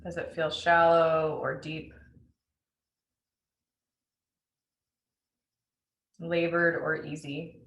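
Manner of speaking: unhurried meditation guide with long pauses; spacious, measured breath-awareness instructions; guided meditation. Acted. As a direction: lead listeners gently into noticing the breath.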